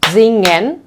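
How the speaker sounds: singen slowly in two beats, sin-gen; split into syllables. Shown as a demonstration. Teacher counts syllables for learners, singen slow and split in two. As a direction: stretch singen to show both syllables. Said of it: "has two syllables".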